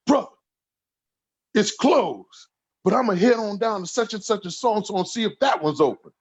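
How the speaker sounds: high put-on voice of a friend on the phone; imitating Bashir.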